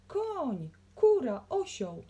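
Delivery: rapid-fire high, loud calls; excited bellowed list; roaring. A narrator's reading. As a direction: shout each word as a separate burst. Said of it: "ryknął biznesmen".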